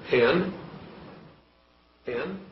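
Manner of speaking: staccato. Shown as a demonstration. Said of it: "let me say them one word at a time".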